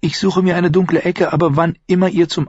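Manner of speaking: junge Frau, höher gesprochen, neugierig; Shay. Acted. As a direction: fragt ihn leise drängend aus. Shay plant bittend. (Shay, junge Frau, höhere Stimme)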